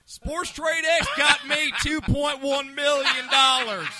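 loud, high, slowly stretched brag; hammed-up promo boast. Host boasting of winnings for sponsor, hammed-up promo. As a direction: crow the winnings like an ad testimonial.

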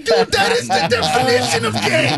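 can't believe what he heard; incredulous. Retold or imitated. Incredulous reply to uncle.

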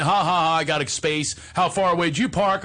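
playful, mocking gloat; teasing. Ribbing the ex-wife about her parking space, teasing. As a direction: poke fun with a mock laugh and a needling question. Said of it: "I'm making fun of her".

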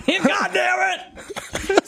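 high, drawn-out mock holler; imitated angry yell. Co-host mimics dad breaking the lovely moment, angry mock yell. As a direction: stretch out the curse as a hammed-up yell. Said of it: "I heard you yell before".

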